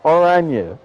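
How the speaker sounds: "Oranje" said the Dutch way, with the j as a y; Dutch pronunciation. Shown as a demonstration. Commentator practising the Dutch word on air, Dutch pronunciation of "Oranje". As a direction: say "Oranje" as "oran-yuh". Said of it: "learned how to say Oranje properly".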